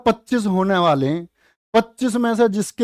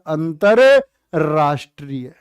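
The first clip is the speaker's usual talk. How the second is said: each syllable drawn out slowly; slow demo; 4 semitones lower, slower than usual. Shown as a demonstration. Teacher sounding out the word अंतरराष्ट्रीय slowly for students. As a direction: spell it out in speech, slowly. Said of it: "र सिर्फ बोलना आना चाहिए".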